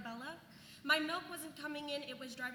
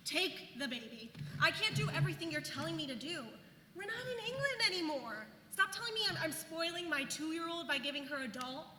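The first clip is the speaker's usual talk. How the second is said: exasperated rant. Acted. Venting about mother-in-law's advice.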